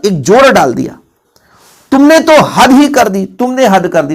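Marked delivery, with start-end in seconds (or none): 1.9-3.3 slow, higher and louder, leaning on तो and ही; emphatic stress. Shown as a demonstration. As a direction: drag out तुमने तो हद ही कर दी with force. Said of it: "ही जोड़ दे".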